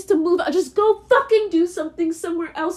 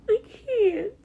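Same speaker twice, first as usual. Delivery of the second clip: crying; 4 semitones higher than usual. Real, not acted. Breaking down again.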